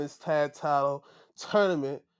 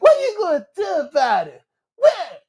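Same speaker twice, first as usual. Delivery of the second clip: higher, louder trash-talk taunt; taunting challenge; 11 semitones higher, 11 dB louder than usual. Retold or imitated. Wrestler taunting his opponent face to face, loud. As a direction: get in his face and dare him. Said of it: "he's like".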